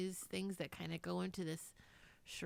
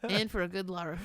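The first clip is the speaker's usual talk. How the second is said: mock British; 7 dB louder than usual. Repeating jokey larf.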